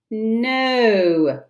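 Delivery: a loud, scornful no. Acted. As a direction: toss it off with contempt. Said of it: "he said scornfully".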